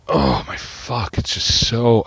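groaning through tooth pain; slow, pained groan from aching teeth; toothache. Real, not acted. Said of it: "My teeth hurt so bad".

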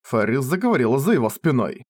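ordinary delivery, nothing marked

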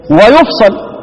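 ويفصل said "wa-yufsal"; ويفصل as passive "wayufsal"; reading with u then a. Shown as a demonstration. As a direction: put u on the ya and a on the sad in ويفصل. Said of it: "افتح الضم".

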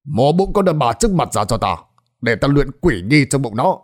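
a hint of an evil sorcerer's order; lightly voiced wicked sorcerer; sorcerer commanding. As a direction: bark the command coldly. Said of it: "liền quát lớn".

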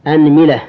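أنملة said "anmila", a then i; a-i vowels. Shown as a demonstration. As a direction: open on a, then "mila". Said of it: "هذا في الفتح".

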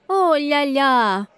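tipsy thoughts cheering; tipsy ooh-la-la. Acted. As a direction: drawl it out tipsily.

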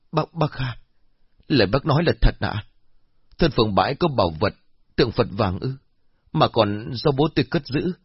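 astonished. Acted. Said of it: "há hốc miệng ngạc nhiên".

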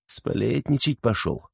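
quiet, slow mocking thought; a hint of a smirk; smirking aside. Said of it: "мысленно усмехнулся Космин".

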